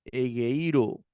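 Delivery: "Egeiro" with the I accented; teacher's model "Egeiro", stressed iota. Shown as a demonstration. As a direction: put the weight on the I of "Egeiro". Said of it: "Acento en la iota".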